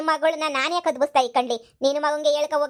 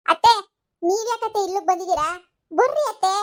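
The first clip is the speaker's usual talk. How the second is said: higher, calling her away; urgent call; 4 semitones higher than usual. Acted. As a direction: pull her out of the fight. Daughter-in-law pulls aunt away.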